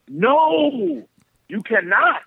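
a hint of a transformed, serious stranger; stern serious voice. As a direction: lay down the law like another man. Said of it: "His voice was different".

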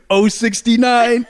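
high and playful, half laughing; gleeful bingo-joke quote. Retold or imitated. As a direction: stretch it out with giddy glee. Retelling a bingo joke to Justin.

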